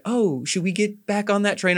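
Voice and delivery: high-pitched mock suggestion; imitating game character. Imitating a game love interest seeking reunion, high mock voice. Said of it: "she's like".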